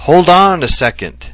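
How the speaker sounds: high, loud call to stop; shouting after someone. A narrator's reading. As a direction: shout it after a man walking away. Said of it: "hobble after him and shout".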